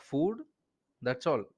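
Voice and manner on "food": one-word question with rising pitch; terse question. Retold or imitated. Indian speaker imitates how people back home ask about lunch, terse rising question. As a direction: lift it into a short, casual query. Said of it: "they will ju-, just ask".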